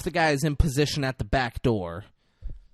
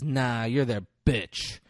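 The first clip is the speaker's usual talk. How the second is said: tag; 4 dB louder, slower than usual. Retold or imitated. Roger needles Denzel.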